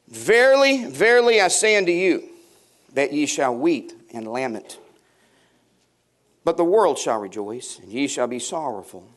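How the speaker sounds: solemn Bible reading; scripture reading. Acted. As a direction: declaim the verse like King James. Reads scripture aloud.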